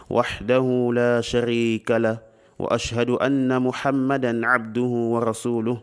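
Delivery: steady, near-monotone liturgical recitation; formal Arabic invocation. Acted. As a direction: recite the opening formula fluently on one level tone. Recites the formulaic Arabic opening.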